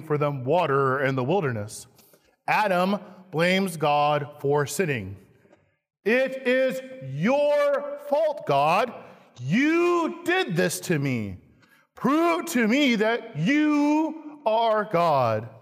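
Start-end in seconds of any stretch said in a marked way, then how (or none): 6.0-15.5 slow, accusing complaint; blaming God. Acted. Preacher voicing Adam blaming God, slow and accusing. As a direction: hurl the blame slowly.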